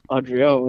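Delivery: "Adriel" as AH-dree-ul, dark final l; English r in "Adriel"; English pronunciation. Retold or imitated. Friend copying how she says it, English "Adriel". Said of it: "you were like".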